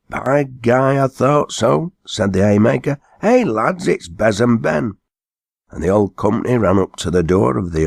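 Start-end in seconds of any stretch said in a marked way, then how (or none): 0.1-5.0 high, excited shout to the lads; recognizing call. A narrator's reading. Haymaker recognizing Ben, high excited call. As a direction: call your mates over.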